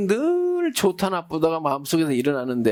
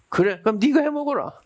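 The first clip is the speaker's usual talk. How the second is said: wife snapping back; 6 semitones higher than usual. Retold or imitated. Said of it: "그러니까 여자가".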